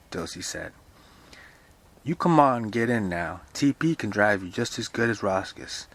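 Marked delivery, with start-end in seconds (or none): 2.0-5.9 a caretaker's brisk order, lightly voiced; urging caretaker. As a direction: coax her along firmly. Voices Dilsey urging Mother.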